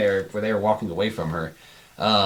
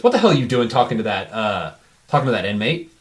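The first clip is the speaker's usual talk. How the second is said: brisk, mildly stern guard challenge; lightly acted reprimand, quick and firm; 4 dB louder than usual. Guard catches someone talking to an inmate, mildly stern.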